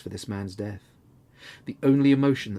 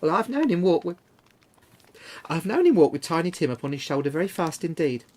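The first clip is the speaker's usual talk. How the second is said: louder, higher, bravely cheerful with one falter; steady cheerful voice; 6 semitones higher, 7 dB louder than usual. A narrator's reading. Mother to her children, steady and cheerful through grief. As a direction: keep it cheerful though grief pulls at it. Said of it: "cheerful voice that only faltered once".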